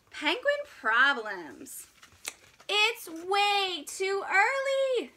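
slow, deliberate read-aloud voice; storybook reading. A narrator's reading. Reading a picture book to young kids, slow and deliberate. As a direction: read it slowly like a children's book.

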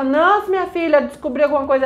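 acted-out urgent caller; urgent report. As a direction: blurt it urgently down the phone. Kids urgently phoning Nancy.

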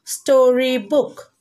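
"Storybook" stretched slowly over three syllables; slow teacher's model of "Storybook"; syllables sounded out. Shown as a demonstration. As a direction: draw out each part of "Storybook". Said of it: "Three syllable words".

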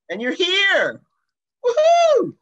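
high, loud burst of glee; loud, excited cheer. Real, not acted. Welcoming the group out of meditation, loud excited cheer. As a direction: whoop it out with real excitement. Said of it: "Sorry to be so loud".

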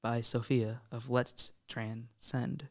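formal credit. Pretend. Host formally credits the poem.

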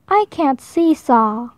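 slow, downcast; mildly sad. Acted. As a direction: Hippo admitting he can't seesaw, slowly and sadly. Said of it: "said Hippo sadly".

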